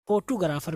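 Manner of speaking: फोटोग्राफर as "fo-too-ga-raa-far"; Urdu pronunciation. Shown as a demonstration. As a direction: loosen फोटोग्राफर into "too-garaa". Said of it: "हम उर्दू में पढ़ेंगे". (फोटोग्राफर, Urdu लहजे में "फोटूगराफर")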